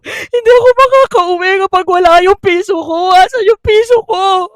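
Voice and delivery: loud hammed-up wailing; drunk wailing. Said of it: "Yak daw talaga siya".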